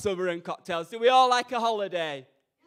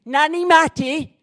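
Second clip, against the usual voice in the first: put-on higher, slow little kid pleading; child's voice; 8 semitones higher, 7 dB louder, slower than usual. Jude Law's kids calling for their nanny, in a higher child voice. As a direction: play a small child looking up at the nanny. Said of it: "his kids would look up at me like this".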